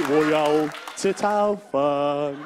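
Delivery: "Wo yao che chao fan" dragged out low and slow; low tone guess. Shown as a demonstration. Comedian trying another tone, low and slow. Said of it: "gue lempar lagi".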